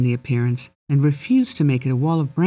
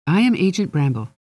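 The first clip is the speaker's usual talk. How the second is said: higher voice; 3 semitones higher than usual. Acted. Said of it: "This time it was a higher voice".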